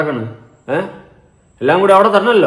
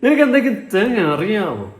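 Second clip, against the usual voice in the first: high, very drawn-out taunting question; slow, exaggerated high-pitched mock confrontation; mock challenge; 5 semitones higher, slower than usual. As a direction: stretch each word into a teasing challenge. Mock confrontation after played clip.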